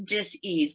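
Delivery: "dis-ease" as dis, a beat, then ease; "dis-ease" spelt out as two parts, ease stressed; dis-ease split in two. Shown as a demonstration. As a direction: say "dis-ease" slowly with a break after dis. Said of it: "D I S dash E A S E".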